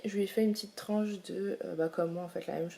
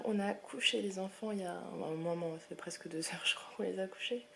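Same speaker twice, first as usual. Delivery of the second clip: quiet voice; 7 dB quieter than usual. Real, not acted. Children asleep, speaks softly.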